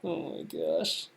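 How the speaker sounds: breathless whispered oh my gosh; stunned whisper. Real, not acted. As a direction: whisper it, floored. Stunned after long pause.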